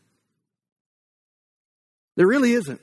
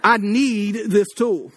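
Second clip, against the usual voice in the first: longing for tool; 3 semitones higher, much slower than usual. Retold or imitated. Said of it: "I'm like".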